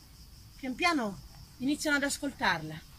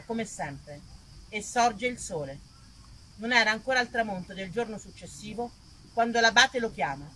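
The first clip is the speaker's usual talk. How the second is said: story narration; 3 semitones lower than usual. A narrator's reading. Actress narrates Saint Marina's life to the audience, measured. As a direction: tell the saint's tale like an old legend.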